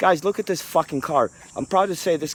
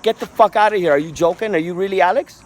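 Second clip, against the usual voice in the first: disbelief; 3 semitones higher than usual. Retold or imitated. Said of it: "I'm like".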